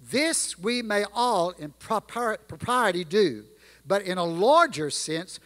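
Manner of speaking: reading the Gettysburg Address in a measured, stately cadence; formal recitation. Acted. Preacher reciting Lincoln's speech to the congregation, stately. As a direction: let each phrase land with weight.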